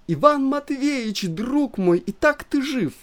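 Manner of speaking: high, babbling wife's voice. A narrator's reading. Wife babbles at her swallowed husband, anxious. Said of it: "лепетала Елена Ивановна".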